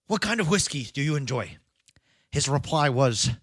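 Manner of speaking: put-on storytelling in an amateur Irish accent. Podcaster telling his co-host a bar story on request, in an attempted Irish accent. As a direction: spin the tale in a mock Irish lilt. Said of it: "You better do it in an accent".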